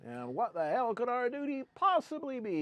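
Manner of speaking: mock dramatic. Mock-grand question about their duty.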